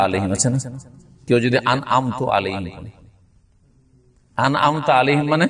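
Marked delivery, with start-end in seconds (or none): 1.7-2.6 আন'আমতু with a final u sound; wrong vowel ending. Shown as a demonstration. Teacher showing the wrong reading আন'আমতু. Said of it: "আর আন'আমতু আলাইহিম মানে". 4.4-5.3 আন'আমতা with a clear final a; correct reading. Shown as a demonstration. Teacher giving the correct reading আন'আমতা. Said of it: "হে আল্লাহ, তুমি যাদেরকে পুরস্কৃত করেছো".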